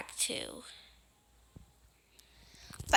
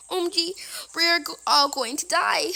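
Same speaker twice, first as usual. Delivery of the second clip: louder frightened whisper; panicked whisper; 4 semitones higher, 6 dB louder than usual. Acted. Player sure they're all doomed, panicked whisper. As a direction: whisper in mock terror.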